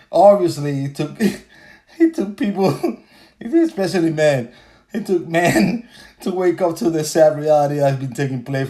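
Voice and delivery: words broken by real chuckles; amused chuckling delivery; laughing while talking. Real, not acted. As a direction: giggle through the sentence. Laughing through speech.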